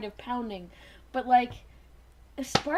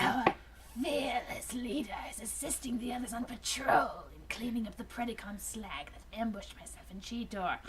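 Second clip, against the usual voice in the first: Dinobot voice; 2 semitones lower, 8 dB quieter than usual. Acted. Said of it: "That's pretty good".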